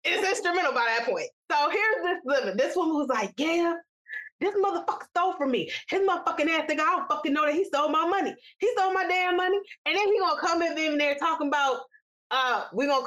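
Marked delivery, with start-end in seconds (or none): 3.4-9.6 mock indignant rant, a little raised in pitch; retold rant. Aunt complaining that he stole from her, retold indignant rant. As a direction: imitate an aggrieved woman cursing out a thief. Retells the woman's angry rant.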